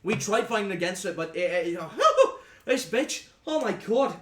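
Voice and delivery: put-on rough sailor accent, loud bragging with a laugh; boastful sea captain. Captain bragging to the party about the shark, rough sailor accent. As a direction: brag about the hunt like an old sea dog.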